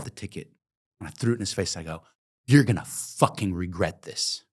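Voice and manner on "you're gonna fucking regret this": slow, deliberate menace; fired worker threatening the boss slowly; slow threat. Retold or imitated. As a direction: spell out the threat word by word. Tearing up ticket, threatening.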